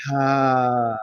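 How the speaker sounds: low, long airy ha; empty the breath on one low syllable; audible exhale. Shown as a demonstration. Coach leading a breathing exercise, exhaled ha.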